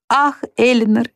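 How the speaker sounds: high, slow, grieving lament; sorrowful cry. A narrator's reading. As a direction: cry it out slowly in grief. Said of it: "воскликнуть с горестью". (медленный, высокий горестный возглас)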